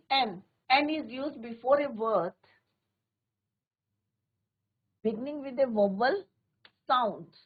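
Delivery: slow, word by word, for copying into notebooks; slow dictation. Shown as a demonstration. Teacher reads the rule to students slowly. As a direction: spell the rule out slowly for the class. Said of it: "teacher dictating the rule slowly".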